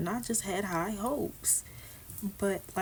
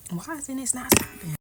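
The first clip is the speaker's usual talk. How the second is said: frustrated outburst; 6 semitones higher, 4 dB louder than usual. Real, not acted. Struggling with her hair.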